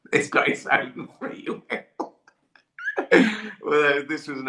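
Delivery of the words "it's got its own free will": words breaking up into laughter; louder, giggle through the protest; real laughing. Real, not acted. Defending himself over the absurd bit, laughing as he speaks.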